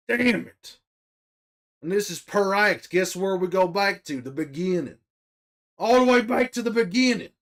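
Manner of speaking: exasperated shouted rant; angry rant. Real, not acted. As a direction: vent the frustration. Ranting about restarting the act.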